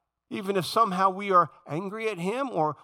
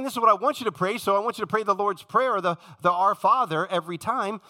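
mock misreading of Jesus; 4 semitones higher, 4 dB louder than usual. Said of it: "So he's not saying".

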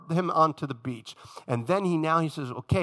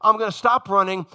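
much higher, pleading apology to God; impassioned pleading Jonah; 9 semitones higher, 3 dB louder than usual. Pretend. Jonah begging the sailors and God for forgiveness, high and impassioned. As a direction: cry out sorry to the Lord and the sailors. Imagined repentant Jonah speech.

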